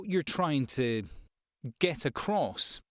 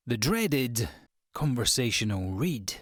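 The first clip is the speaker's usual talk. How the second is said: mock-dreading announcement. Real, not acted. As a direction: announce it portentously, pausing before each part. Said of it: "No idea why I did it like that".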